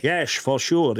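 mock Dutch accent that turns every S into an SH. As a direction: slur "sure" and "true" with an SH sound, Dutch-style. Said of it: "putting an S H where it was just an S".

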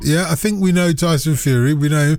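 a mock Cockney hard man, lightly done; put-on Cockney caller. Prank caller boasting to the host, in a put-on Cockney accent.

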